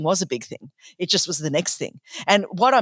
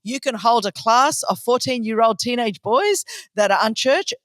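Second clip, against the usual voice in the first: a lightly hammed-up sassy answer; sassy retort; 3 semitones higher than usual. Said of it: "I'm like".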